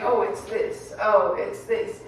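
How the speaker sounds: slow, dull unimpressed listing; a hint of boredom, dragging the second one; mock bored. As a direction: drone it out like nothing here is interesting. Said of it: "That is so boring".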